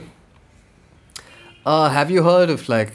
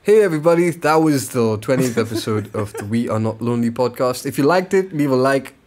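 announcer voice. Pretend. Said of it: "do your announcer voice".

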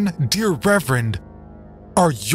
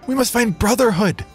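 high, pressing plea over the crowd, stress on must; earnest raised appeal for brotherhood; 13 semitones higher, 3 dB louder than usual. Acted. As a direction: urge them toward brotherhood. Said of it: "spoke up over the din".

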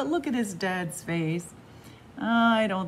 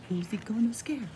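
whisper; 2 semitones higher, faster than usual. Acted. Repeated suspense question.

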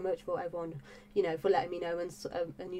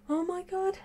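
excited squeal; 12 semitones higher, 3 dB louder than usual. Real, not acted.

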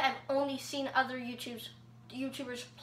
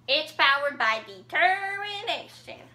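lightly voiced game character; put-on character line, rising then falling; Sans; 2 semitones higher, 3 dB louder than usual. Host does a line as Sans, lightly voiced impression. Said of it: "Number two is Sans".

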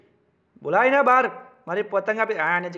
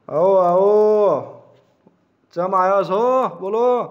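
mock welcome; 5 dB louder, much slower than usual. Mocking welcome to kite thieves.

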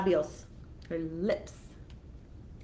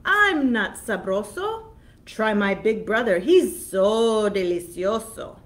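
pleading goat; 8 dB louder than usual. Acted.

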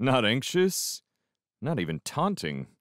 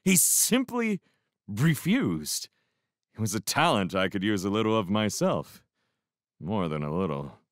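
ordinary delivery

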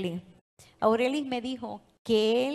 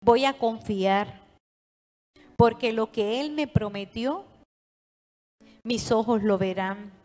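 firm, louder declaration for the congregation to echo; declaration to repeat; 4 dB louder than usual. Real, not acted. Preacher leads congregation in a bold repeated declaration. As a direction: proclaim each phrase for them to repeat. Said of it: "repite conmigo".

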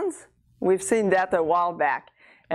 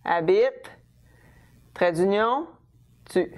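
long pauses between each piece; teacher dictating, hyphen named aloud. Shown as a demonstration. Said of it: "my verb will go first".

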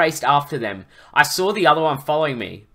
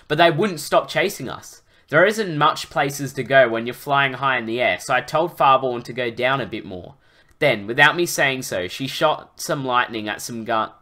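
animated, emphatic story reading; story narration. A narrator's reading. Narrator recounting a dragon rescue to listeners, animated storytelling. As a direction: read the adventure out with drive.

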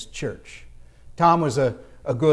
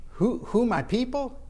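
mildly baffled, higher-pitched echo question; puzzled echo; 5 semitones higher than usual. Retold or imitated. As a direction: stammer the question back, lightly acting puzzled. Acting his puzzled reply to locals.

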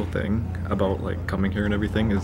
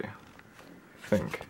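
whispered aside; 17 dB quieter than usual. Real, not acted. Unsure muttered aside.

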